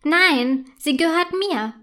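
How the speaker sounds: höher und lauter, trotzig zeternd; zurückschimpfend. A narrator's reading. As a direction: die Muschel lautstark verteidigen. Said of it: "schimpft Clara zurück". (Clara schimpft zurück, hoch und lauter)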